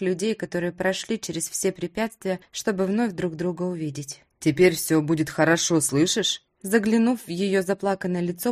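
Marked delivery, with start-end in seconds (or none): none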